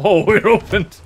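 high, loud burst of surprise; sudden high yelp of discovery; startled surprise. Real, not acted. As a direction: exclaim it, caught off guard. Surprised by the chest opening.

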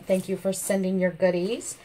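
ordinary talk

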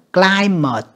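"climate" with "eye" in the first syllable; long I sound. Shown as a demonstration. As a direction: say "climate" as CLY-mut, set apart. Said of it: "âm I ha". ("climate" đọc rõ âm "ai")

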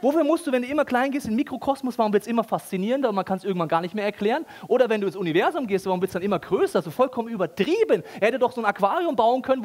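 ordinary delivery

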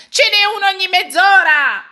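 high, loud call across the water; sailor's shout. A narrator's reading. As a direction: call back over the lake. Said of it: "gridò un marinaio". (richiamo del marinaio, acuto e forte)

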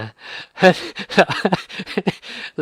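high, loud laugh; real amused laugh; burst of laughter. Real, not acted. Laughs at own example.

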